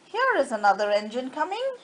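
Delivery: quick, eager clown call. Acted. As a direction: hurry the news out to the toys. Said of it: "called out".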